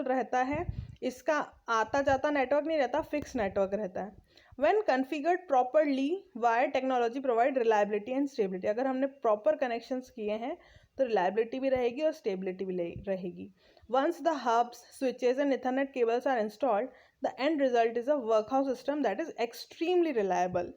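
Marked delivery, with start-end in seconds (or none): 4.6-8.7 reading the English text aloud, very slowly; slow textbook reading. Acted. Reads textbook line slowly. 13.9-20.7 reading the English text aloud, very slowly; slow textbook reading. Acted. Reads textbook line slowly.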